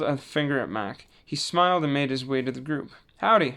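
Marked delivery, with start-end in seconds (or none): 3.2-3.5 higher, cheery howdy; bright greeting. A narrator's reading. Mac greets the group again, cheerful. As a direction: chirp a friendly hello. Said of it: "he said again".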